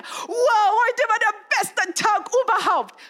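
put-on high, bright-eyed thrilled kid voice; delighted child. Child tells mom it was the best day, gushing excitedly. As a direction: gush like an overjoyed child. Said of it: "child later".

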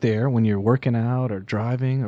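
congested voice with a head cold; stuffy nose. Real, not acted. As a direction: talk through a stuffy nose. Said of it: "You sound a little stuffy".

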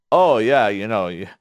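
sarcastic fake compliment, leaning on the opening words; mock sarcasm. Spouse needling the other about a brother, sarcastic. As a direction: feign agreement with a sarcastic edge. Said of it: "Stop being sarcastic".

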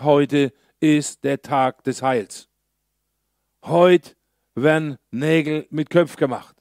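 slow, then a loud burst on Heute; the four friends, resolute and rousing; bold declaration. Retold or imitated. Four friends urging the lame man, with a loud resolve. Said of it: "die vier haben gesagt".

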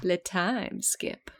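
drawn-out, soft mock French time skip; slow mock announcement. Reader announcing the time skip herself, slow mock title. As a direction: stretch it out like a silly title card. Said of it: "One more time".

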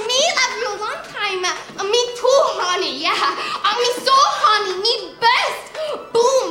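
mock Asian accent. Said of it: "more Asian than that".

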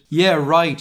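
mildly emphatic comeback; exclaiming. Acted. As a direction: exclaim it with a quick lift. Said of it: "she exclaimed".

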